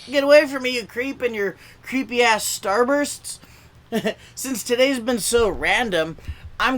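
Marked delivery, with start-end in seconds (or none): 0.1-3.4 repulsed. Retold or imitated. People recoiling from the whisperer, mock disgusted yell. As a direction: push the creep away. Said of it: "They'd be like".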